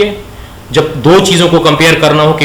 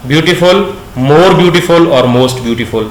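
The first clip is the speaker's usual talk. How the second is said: slow dictation; much slower than usual. Shown as a demonstration. Teacher dictating the forms.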